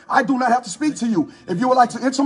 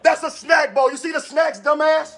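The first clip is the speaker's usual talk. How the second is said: angry yelling. Real, not acted. Homeowner yelling at officers over blood.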